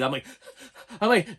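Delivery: ordinary delivery, nothing marked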